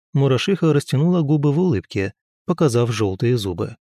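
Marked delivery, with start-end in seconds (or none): none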